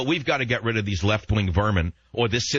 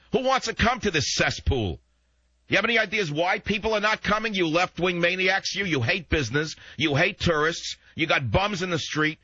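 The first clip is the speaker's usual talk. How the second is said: high-pitched, indignant ranting at the left; heated rant; 8 semitones higher than usual. Real, not acted. Talk host berating left-wing San Francisco over lost tourists, high-pitched rant. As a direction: pitch climbing, scolding the schmucks.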